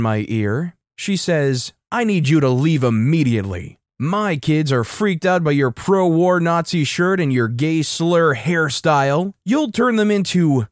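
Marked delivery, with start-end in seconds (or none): 1.9-10.7 hammed-up outrage, pitch climbing as it goes; mock screaming. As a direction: demand it with exaggerated, stretched words. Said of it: "someone is just screaming in".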